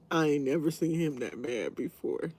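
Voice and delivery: ordinary talk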